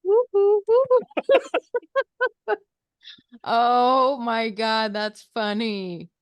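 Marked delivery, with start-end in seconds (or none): 0.0-2.6 high, loud cheering whoops; loud high woo-woo cheer; excited whooping. Real, not acted. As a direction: whoop it up like a fan.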